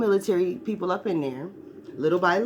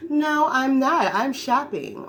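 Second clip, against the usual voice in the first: dismissive mother; 7 semitones higher, 4 dB louder, much slower than usual. Retold or imitated. Mother voiced in store scene.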